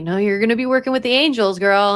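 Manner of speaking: laughing psychic. Retold or imitated. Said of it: "Just being like".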